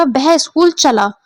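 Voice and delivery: चला given extra force at the end; stress on चला. Shown as a demonstration. Teacher showing students word stress, stress on चला. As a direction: lean on the last word, चला. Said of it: "बहुत ज्यादा जोर दिया".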